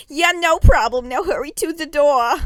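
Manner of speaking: high, loud hurried call; loud exclaim. A narrator's reading. Mom rushing daughter to the door, loud high exclaim. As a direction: hurry her out loudly. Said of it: "she loudly exclaimed loudly".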